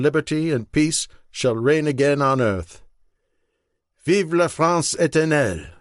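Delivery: lightly voiced statesman giving a formal radio address; measured, solemn appeal to the French; Roosevelt speech. Novel quotes Roosevelt's radio speech.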